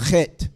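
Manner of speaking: Chet with a rasping throat sound, like ch in Bach; guttural Chet. Shown as a demonstration. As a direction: scrape the back of the throat on Chet. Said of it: "chet is the guttural sound".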